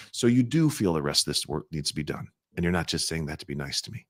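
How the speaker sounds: soft playful confirmation; light teasing tone. Shown as a demonstration. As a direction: gently tease the client. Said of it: "We do it with our tonality".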